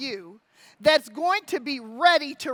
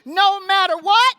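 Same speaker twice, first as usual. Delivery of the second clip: louder rallying call, higher; battle cry; 4 semitones higher, 5 dB louder than usual. Acted. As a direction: belt it out to the room. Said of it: "I gotta do a war call here".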